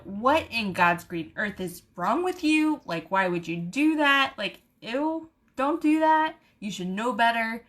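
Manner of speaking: lively mock telling-off; mildly indignant rant, retold; retold scolding. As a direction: scold them with exasperated disgust. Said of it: "letting people have it".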